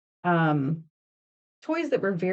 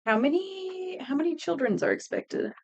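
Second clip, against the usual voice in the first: mock panic; 7 semitones higher than usual. Real, not acted. Joking dread about kids.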